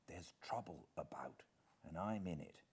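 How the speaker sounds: urgent unvoiced whisper. Hiding man whispering to the butler, urgent whisper. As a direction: lean in and whisper it. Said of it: "I whispered".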